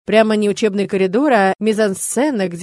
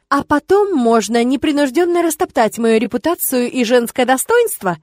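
indignant; 2 semitones higher than usual. Acted. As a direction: build up offence as you jab. Возмущение и обида.

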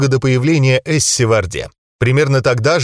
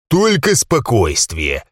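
calm, commanding; much slower than usual. Acted. Calming the angry crowd.

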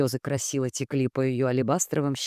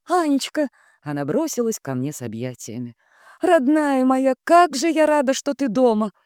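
gushing sister; 10 semitones higher than usual. A narrator's reading. Sister bursting in to greet injured sister, high gushing. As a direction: gush over her as if overjoyed.

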